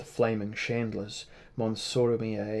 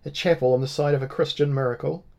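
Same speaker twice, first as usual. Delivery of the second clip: mocking; 5 semitones higher, 5 dB louder than usual. A narrator's reading. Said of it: "mocked Labussa".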